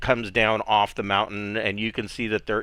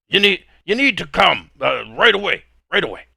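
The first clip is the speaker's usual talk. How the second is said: put-on much higher, louder urgent call in a heavy accent; urgent bartender; 8 semitones higher, 5 dB louder, faster than usual. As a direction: burst in and summon them now.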